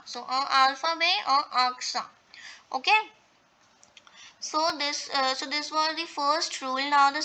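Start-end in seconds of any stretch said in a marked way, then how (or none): 0.3-2.0 "alpha be" and "aksa" with no final T; silent final consonants. Shown as a demonstration. Teacher summing up examples, "alpha be", "aksa" with silent endings. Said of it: "Here also T is not pronounced".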